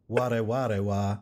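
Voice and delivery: slow Japanese phrasing in a Southern drawl. Acted. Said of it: "speak Japanese in a southern accent".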